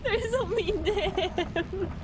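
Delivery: laughing through tears. Real, not acted. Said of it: "I have tears streaming down my face".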